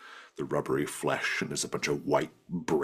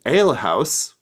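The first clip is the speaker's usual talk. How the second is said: higher, louder puzzled echo; young goblin asking back, confused; 9 semitones higher, 8 dB louder, slower than usual. Acted. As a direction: repeat it as if the word is strange.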